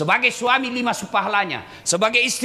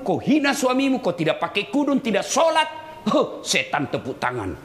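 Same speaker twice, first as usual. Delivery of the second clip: ordinary talk, nothing marked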